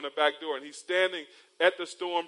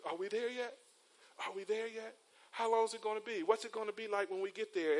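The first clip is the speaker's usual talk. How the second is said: put-on lightly whiny kid; 5 semitones higher, 3 dB quieter than usual. Son asking every five minutes.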